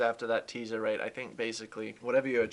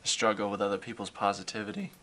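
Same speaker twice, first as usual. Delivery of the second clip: voice cracking; faster than usual. Real, not acted. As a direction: voice cracks mid-sentence. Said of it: "Why did my voice crack?".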